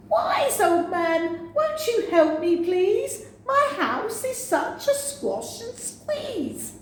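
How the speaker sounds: beg, stretching the words; pleading old woman. Acted. Old woman's refrain plea.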